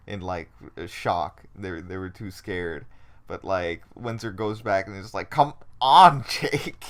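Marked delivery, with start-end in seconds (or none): 5.3-6.8 urgent call. Retold or imitated. Windsor voiced pulling Jake.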